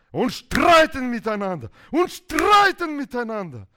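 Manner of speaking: high, loud, hammered repetition; animated, forceful storytelling outburst; heated quarrelling. Acted. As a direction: shout it like a mounting fight. Dramatizes two hands fighting each other.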